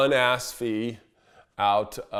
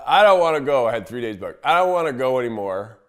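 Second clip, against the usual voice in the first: annoyed refusal; 2 semitones higher, 6 dB louder than usual. Retold or imitated. Client quits the trip.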